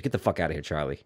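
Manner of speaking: low, soft imitated threat; understated menacing order; sudden switch to menace. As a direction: drop your voice for a quiet dismissal. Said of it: "it just changed".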